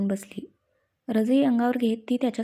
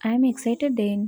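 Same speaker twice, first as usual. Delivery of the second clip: happy and excited; much slower than usual. Acted. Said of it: "तीही खुश होत म्हणाली".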